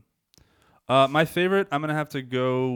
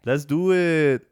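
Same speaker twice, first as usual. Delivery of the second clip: slow, louder mock Latino accent; imitated Latino accent; 4 semitones higher, 6 dB louder, much slower than usual. Host mimicking co-host's catchphrase to prove it's a Latino accent. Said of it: "Latino accent".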